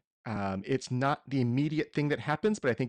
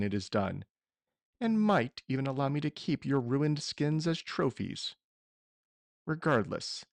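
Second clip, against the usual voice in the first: villain monologue; 2 semitones lower than usual. Acted. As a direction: gloat over the heroes like a villain. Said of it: "I'm gonna give a small villain monologue here".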